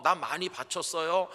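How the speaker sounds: a church member bragging about the offering; boastful. Retold or imitated. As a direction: show off the big offering. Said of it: "으스대는 사람".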